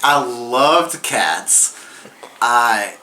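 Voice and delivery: slightly slurred, tipsy. Real, not acted. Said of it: "how many shots have I had right now".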